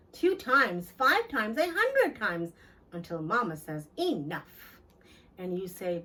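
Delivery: put-on gentle read-aloud for children; lilting, unhurried storyteller; storybook narration. A narrator's reading. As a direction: tell it like a bedtime picture book. Reads picture book aloud.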